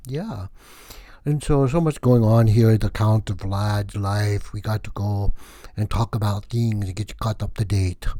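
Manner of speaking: hammed-up comic vampire count; lightly voiced comic Count Vlad; Count Vlad character. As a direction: play the wacky vampire count, boastful and loose. Held Count Vlad comedy character voice.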